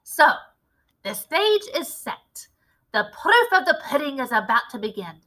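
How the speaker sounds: a lightly voiced commanding witch leader; a hint of a grand witch showing off her recipe. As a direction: lecture the coven like their boss. Grand High Witch addresses the witches.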